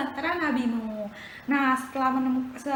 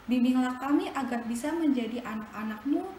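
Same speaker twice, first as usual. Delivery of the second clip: soft, lowered prayer voice; 3 dB quieter than usual. Acted. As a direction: pray gently with the children. Leads closing prayer.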